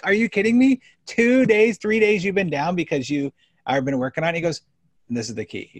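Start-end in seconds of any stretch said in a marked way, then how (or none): 0.1-4.4 retold outburst, high and loud at first, easing off; exasperated, pitched up; incredulous scolding. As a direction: scold a client in mock disbelief.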